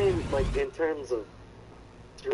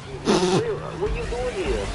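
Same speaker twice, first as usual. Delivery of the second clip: higher, louder mock Cambodian accent; imitated Cambodian accent; 4 semitones higher, 3 dB louder than usual. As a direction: lightly imitate a Cambodian woman, pitched up. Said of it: "a much more thicker fucking accent".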